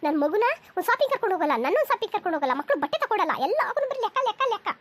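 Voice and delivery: worked-up, lively rant with big pitch swings; exasperated wife's tirade; indignant complaint. Acted. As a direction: let the grievances pour out. Wife rants about husband's stinginess.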